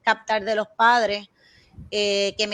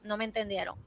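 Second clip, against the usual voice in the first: queja imitada; 2 semitones lower, 13 dB quieter, faster than usual. Retold or imitated. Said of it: "porque rápido está".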